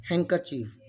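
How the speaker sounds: "Handkerchief" as hang-ker-chief, no D; silent D. Shown as a demonstration. Teacher models the word for beginners, handkerchief with silent D. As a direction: drop the D in "Handkerchief". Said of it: "It's pronounced".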